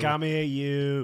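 menacing chef calling a cook over; Gordon Ramsay impression. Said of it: "He always says".

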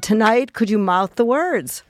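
lightly voiced teacher, slow on the request; fifth grade teacher. Teacher pulling a pupil aside, mildly voiced slow request. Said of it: "She said".

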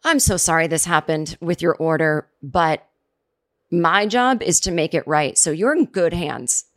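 calm, steady and sincere, slowing at the end; reassuring service voice. Shown as a demonstration. Agent calming an upset caller, reassuring. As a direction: reassure the customer kindly. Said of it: "You can say to someone".

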